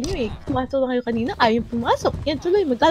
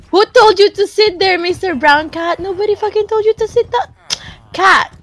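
scolding; 6 semitones higher than usual. Real, not acted. Scolding cats for sitting.

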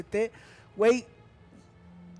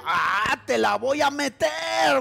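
mock troll line; 2 semitones higher, 4 dB louder, slower than usual. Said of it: "yo pensé que decía".

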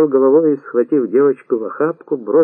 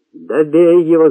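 loud, higher-pitched angry order; furious shout; 5 semitones higher, 5 dB louder than usual. A narrator's reading. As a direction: yell the order in anger. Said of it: "закричал темнее от гнева Махмуд". (гневный крик)

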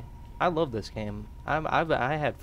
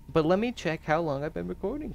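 ordinary talk

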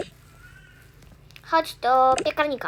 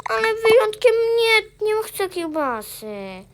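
high protest; 7 semitones higher, 4 dB louder than usual. Pretend. Play child objects to eating sausage.

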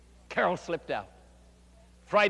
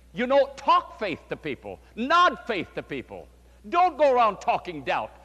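emphatic exhortation; 4 semitones higher, 5 dB louder than usual. Retold or imitated. Pastor telling Carol to talk faith.

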